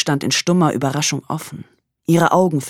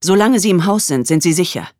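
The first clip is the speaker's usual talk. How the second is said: over a landline phone; 2 semitones higher, 5 dB louder than usual. Acted. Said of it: "die Stimme am Telefon".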